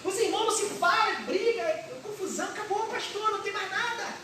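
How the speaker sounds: high, pleading voice of a hopeless believer; despairing churchgoer. Acted. Hopeless believer pleading with the pastor, high and despairing. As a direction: plead with the pastor that all is lost.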